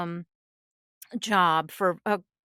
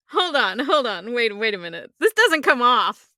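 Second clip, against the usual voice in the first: emphatic, incredulous objection building louder; mock protest; 5 dB louder than usual. Voice actor protesting a client's request, mock-incredulous.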